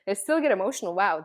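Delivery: fast, laughing through the tears; embarrassed laugh at her own emotion; laughing at herself. Real, not acted. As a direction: laugh it off quickly.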